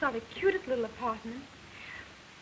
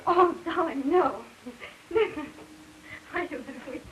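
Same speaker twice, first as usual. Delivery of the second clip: giggling through a protest; laughing protest; 2 semitones higher than usual. Acted. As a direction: laugh off his offer.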